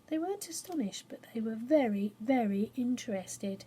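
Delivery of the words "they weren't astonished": whispered aside. A narrator's reading. Hushed aside.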